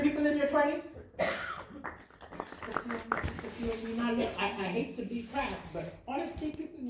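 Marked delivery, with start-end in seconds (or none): 1.2-3.9 slow, softer deadpan at the sparse claps; mock disappointed. Real, not acted. To the crowd, about the few who clapped, quiet mock letdown. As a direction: let the letdown show quietly.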